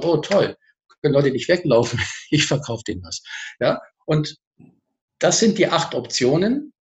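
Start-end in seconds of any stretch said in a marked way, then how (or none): 0.0-3.2 cheerful. Retold or imitated. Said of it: "ich kann auch sagen".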